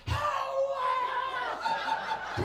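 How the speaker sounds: very high, loud mock shriek; woman going wild. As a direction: shriek in hammed-up ecstasy. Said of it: "She goes crazy again".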